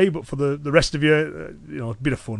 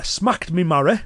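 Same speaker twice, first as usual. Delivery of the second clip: Cumbrian dialect; 3 semitones higher than usual. Shown as a demonstration. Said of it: "I gave a phrase in Cumbrian".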